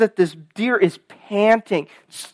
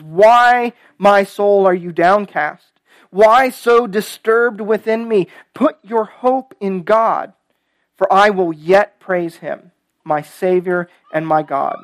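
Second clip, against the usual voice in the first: slow, emphatic psalm refrain; deliberate pulpit reading, key words drawn out; scripture reading; 3 dB louder, slower than usual. Acted. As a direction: read the refrain strongly, then settle at the end. Reads the psalm aloud.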